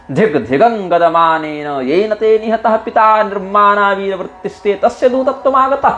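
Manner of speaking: high, contemptuous rebuke of a traitor son; scornful Ravana. Acted. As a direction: shame him with disdain. (Ravan Angad को धिक्कारता है, ऊँची घृणा भरी आवाज़ में)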